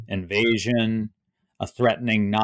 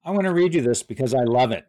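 light Trump impression; 3 semitones higher, faster than usual. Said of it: "Trump tells the crowd".

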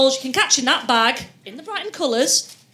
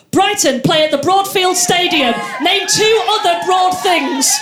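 quiz host shouting; 4 semitones higher, 4 dB louder than usual. Acted.

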